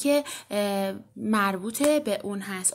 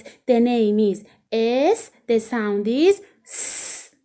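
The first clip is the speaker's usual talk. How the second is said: slow teaching; 4 dB louder, much slower than usual. Shown as a demonstration.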